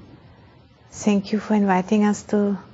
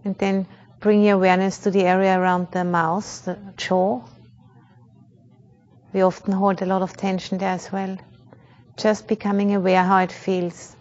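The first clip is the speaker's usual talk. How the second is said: calm, measured meditation guide with long pauses; unhurried, even-toned meditation instruction; guided meditation. Real, not acted. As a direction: guide a group gently into awareness, leaving space between phrases.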